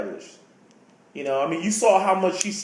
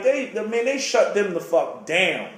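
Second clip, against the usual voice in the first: normal talking voice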